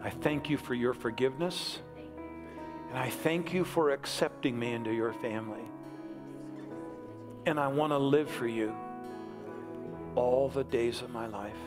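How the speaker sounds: measured prayer in short phrases with long pauses; leading a prayer. Real, not acted. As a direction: lead them phrase by phrase, leaving room to repeat. Leads congregation in prayer.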